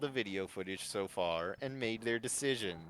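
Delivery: smug host, relishing the drama; Chris host voice. Acted. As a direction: announce the elimination like a gleeful TV host. Chris host voice, read aloud.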